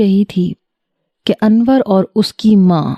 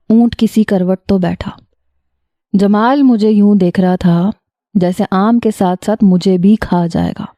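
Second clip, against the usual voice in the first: usual speaking voice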